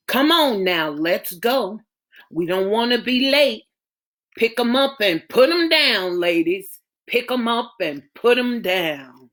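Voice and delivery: proud mother. Acted. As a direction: admire your daughters and tease them. Mother hurrying daughters to church.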